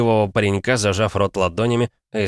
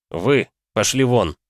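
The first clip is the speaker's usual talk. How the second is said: stern dismissal; 4 semitones higher, slower than usual. Acted. Hero dismisses them.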